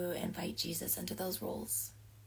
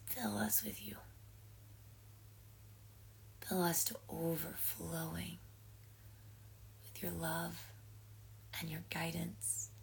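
unhurried prayer with pauses between petitions; 4 dB quieter than usual. Acted. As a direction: pray gently on the group's behalf, leaving space. Leads an opening prayer.

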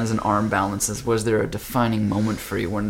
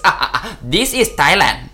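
laughing reply; 7 semitones higher, 8 dB louder than usual. Retold or imitated. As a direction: chuckle it out knowingly. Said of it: "he starts laughing".

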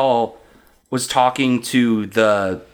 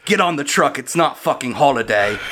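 put-on British accent; 3 semitones higher than usual. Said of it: "from an American to a British accent".

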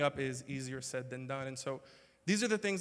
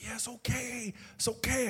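mock reassuring; 8 semitones higher than usual. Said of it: "I'm like".

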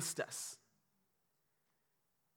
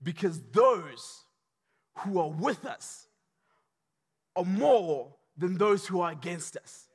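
slow steady assurance. Acted. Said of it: "don't be scared".

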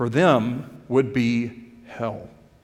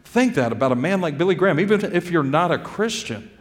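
retold indignation, pitched up but not shouted; indignant; 3 semitones higher than usual. Preacher recalls his reaction to an offensive comment, mildly indignant. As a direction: recount being mildly affronted, voice lifting. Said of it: "It made me very angry".

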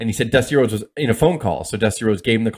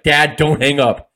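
mock plea, louder and drawn out; urgent plea; 3 semitones higher, 5 dB louder, slower than usual. Son pleads on a collect call, mildly urgent, louder. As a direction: get it in before he hangs up, slowly.

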